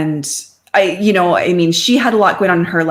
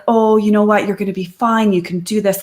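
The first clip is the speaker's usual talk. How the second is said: sympathetic; 3 semitones higher than usual. Retold or imitated. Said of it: "super sympathetic friend".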